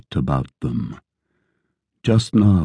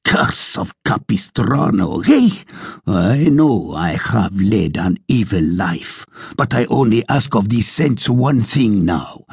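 blustering sergeant; 3 semitones higher than usual. Acted. Sergeant's continued tirade.

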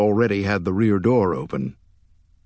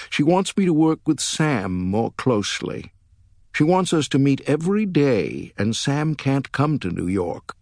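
lightly voiced woman, pitched higher; hint of a woman's voice, raised in pitch; a light higher character voice for an upset girlfriend; 6 semitones higher than usual. Narrator voices Ann in dialogue.

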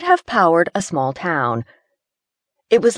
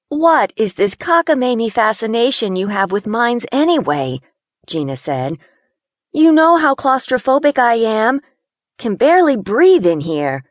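a hint of an edgy city girl, slightly higher; complaining in a tight space; lightly voiced nervous Gina; 6 semitones higher than usual.

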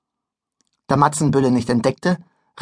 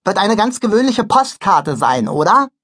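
put-on boy voice; 6 semitones higher, 3 dB louder than usual. Bülle answers behind trumpet.

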